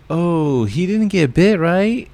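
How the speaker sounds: high, questioning mock voice, rising at the end; imitating worried Cindy. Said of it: "Cindy is all like".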